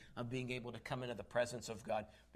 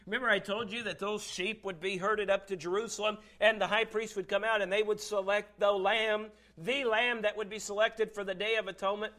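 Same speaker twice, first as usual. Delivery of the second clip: higher, raised preaching voice; emphatic preaching; 6 semitones higher, 7 dB louder than usual. Real, not acted. Preacher reminding church of temple lambs, emphatic. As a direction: build the case with urgency.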